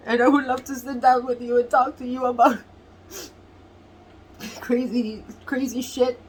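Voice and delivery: tearful, real crying. Real, not acted. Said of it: "I'm so emotional".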